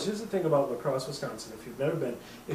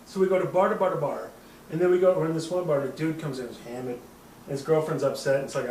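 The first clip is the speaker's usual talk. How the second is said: ordinary delivery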